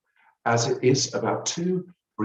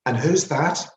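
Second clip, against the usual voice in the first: lightly voiced cleaner, higher pitched; nosy cleaning lady; 7 semitones higher, 3 dB louder than usual. A narrator's reading. Cleaning lady asking narrator about the leading lady, nosy. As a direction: ask it with oblivious curiosity.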